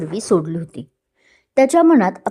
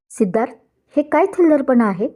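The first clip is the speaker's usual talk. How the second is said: a stern, raised demand, pitched higher; heavy angry voice; 5 semitones higher than usual. Acted. Groom confronting his rival at the reception, stern and raised. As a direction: challenge him with a heavy, hard voice. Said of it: "जडवलेल्या आवाजात विचारलं".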